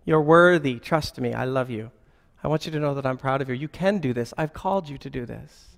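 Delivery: quiet, reassuring voice of God; gentle God's voice. Retold or imitated. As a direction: speak it softly like a loving father reassuring. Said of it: "He'll always build you up".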